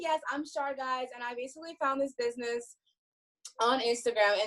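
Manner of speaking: talking while winded; breathless after rushing home; out of breath. Real, not acted. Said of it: "I'm sorry that I'm out of breath right now".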